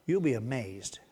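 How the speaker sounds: soft unvoiced whisper. Real, not acted. Preacher whispering encouragement to the congregation, hushed. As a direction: breathe the promise quietly.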